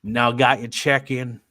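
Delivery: slow, drawn-out Southern drawl on "got your check in". Shown as a demonstration. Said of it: "I don't know why I'm doing it in a Southern drawl".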